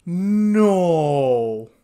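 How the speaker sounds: loud horrified no; shouted no. Real, not acted. Reacting to the reveal, a loud horrified no. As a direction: yell no at the screen.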